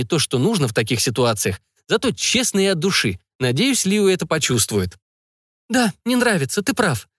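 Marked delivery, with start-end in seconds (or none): 5.7-7.1 defiant. A narrator's reading. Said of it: "с вызовом бросила Леодая".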